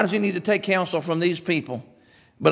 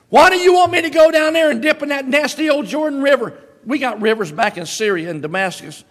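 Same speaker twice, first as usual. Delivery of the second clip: much higher, louder indignant outburst; Naaman in a rage; 10 semitones higher, 6 dB louder than usual. Retold or imitated. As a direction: rant like an insulted general. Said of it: "went away in a rage".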